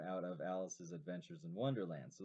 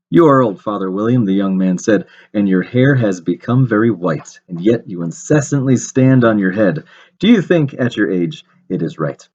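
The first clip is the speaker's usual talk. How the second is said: poem recitation; 30 dB louder than usual. Shown as a demonstration. Teacher rereads a verse to show alliteration, poem recitation. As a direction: recite the verse clearly for children.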